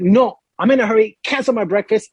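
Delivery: lightly acted insistent demand; imitated hurried guest. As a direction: imitate a guest too rushed to listen. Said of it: "He's like".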